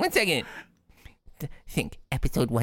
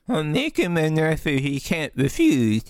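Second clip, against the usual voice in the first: Brando impression. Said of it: "Twiggly Brando".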